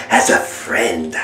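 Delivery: 「as a friend」をぐっと低く、ゆっくり引き伸ばす; スローモーションのような極端に低い声で「as a friend」; slowed deep echo. Acted. Mock breakup speech.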